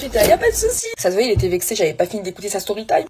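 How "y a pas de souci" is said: much higher, offended voice; mock vexed driver. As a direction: voice the sulking driver.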